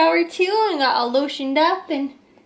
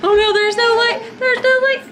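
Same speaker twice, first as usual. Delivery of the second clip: mock alarm; 7 semitones higher, 4 dB louder than usual. Playful alarm to baby.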